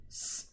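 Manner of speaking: sausage split into s-a-s-a-j, each sound apart; segmented phonemes. Shown as a demonstration. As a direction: sound it out piece by piece. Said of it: "I'm gonna say".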